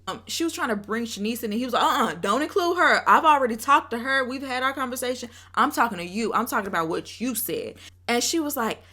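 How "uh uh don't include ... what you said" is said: mock-heated, not full fury; going off. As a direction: retell him firmly shutting her down. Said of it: "he was just going off".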